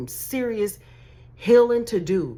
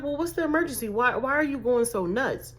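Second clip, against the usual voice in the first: higher-pitched, incredulous asking; puzzled and exasperated, pitched up; baffled questioning; 5 semitones higher than usual. Acted. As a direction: question an overreaction in disbelief. Acts out baffled response to caller.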